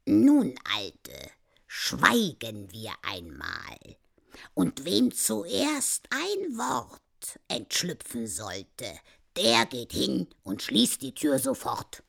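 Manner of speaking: lightly voiced old man, slow and deliberate; old husband proposing. Old man offering his wife a bet, measured challenge. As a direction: lay down the terms slowly.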